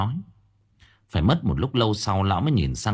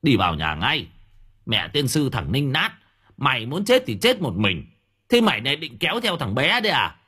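cursing neighbour; 5 semitones higher than usual. Acted. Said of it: "ông hàng xóm chửi".

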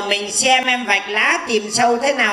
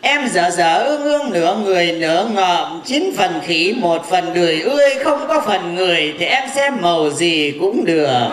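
low teasing put-down; 6 semitones lower than usual. Acted. Teasing insult.

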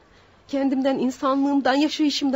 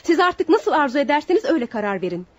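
defiant outburst; 3 semitones higher, 4 dB louder than usual. Acted. Accused woman defying the judge over proof, loud and heated. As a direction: throw it back at the judge, raised voice.

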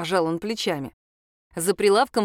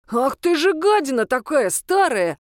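bellowed, higher and louder; рёв; 6 semitones higher, 5 dB louder than usual. A narrator's reading. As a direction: roar at the old man. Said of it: "взревел Томас". (Томас ревёт на деда, громко)

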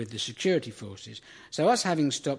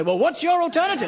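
mock smug reply; 5 dB louder than usual. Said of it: "They say".

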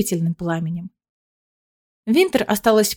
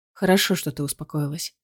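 patient; 5 semitones lower, 7 dB quieter than usual. Acted. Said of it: "терпеливо отвечает Рейф".

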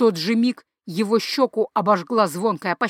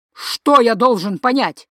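louder, indignant echo; indignant retort; 2 semitones higher, 5 dB louder than usual. Acted. Father throwing the son's words back, indignant and loud.

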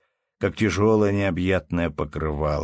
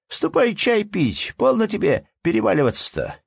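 calling from window; 12 semitones higher, 3 dB louder than usual. A narrator's reading. Anna Andreevna calls from the window for tea, high calling voice. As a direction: holler him in for tea. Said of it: "прокричала она".

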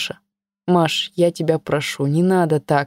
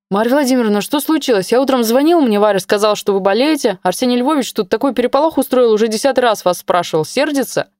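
put-on higher, hurried worried young man; agitated young colleague; 4 semitones higher than usual. Young colleague on the phone to his boss, higher agitated voice. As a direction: rattle it off anxiously.

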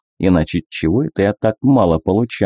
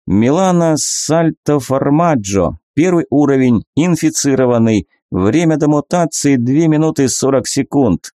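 system readout voice; 5 semitones higher than usual. Acted.

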